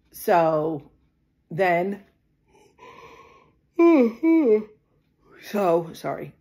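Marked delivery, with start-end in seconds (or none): 3.8-4.7 long loud weary sigh; heavy sigh. Real, not acted. Gathering herself mid-story, heavy sigh. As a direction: sigh before going on. Sighs before continuing.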